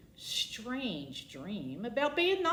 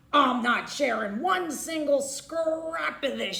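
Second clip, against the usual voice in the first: sniveling; 6 semitones higher, 6 dB louder than usual. Acted. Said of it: "she sniveled".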